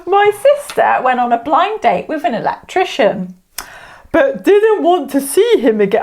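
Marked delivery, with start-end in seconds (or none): 4.1-6.0 lightly put-on American accent. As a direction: tell the joke with a hint of American. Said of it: "American accent".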